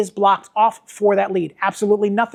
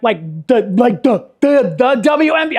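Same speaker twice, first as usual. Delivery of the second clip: stumbling, a bit louder, over the words; stuttering; 3 dB louder than usual. Retold or imitated. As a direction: trip over the words, starstruck. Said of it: "I started stuttering".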